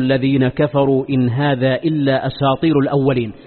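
measured, chanted Quran verses; Quran recitation. Acted. (تلاوة قرآنية مرتلة)

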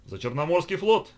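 loud, high rousing toast; exclaiming. A narrator's reading. Bekas raising his glass to the fleet, exclaiming. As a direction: proclaim the toast to the whole table. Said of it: "воскликнул Бекас".

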